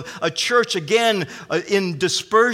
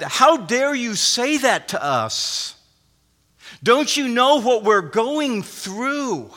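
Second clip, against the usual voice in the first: higher, slow mock outrage of a hurt church member; indignant objector; 4 semitones higher, slower than usual. Preacher voicing the afflicted church objecting to Paul, mild indignation. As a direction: voice the church's offended protest, lightly. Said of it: "in anticipation that".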